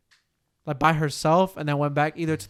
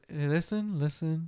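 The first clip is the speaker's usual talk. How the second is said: softer, imitated calm voice; mock calm; 6 dB quieter, slower than usual. Retelling the gaslighting boyfriend's reply, mock calm. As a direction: placate her, in imitation of the boyfriend. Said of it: "in a calmest voice".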